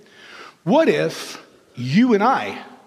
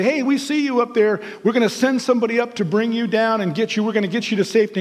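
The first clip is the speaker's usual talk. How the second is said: higher, brisk call up to the roof; rescue squad calling; 4 semitones higher, faster than usual. Acted. Rescue squad shouts up to the man on the roof, brisk and higher. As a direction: reassure him they're coming, quickly.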